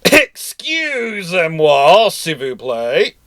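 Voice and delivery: very slow, high, hammed-up French Excusez-moi; a mock French ship asking politely; French accent.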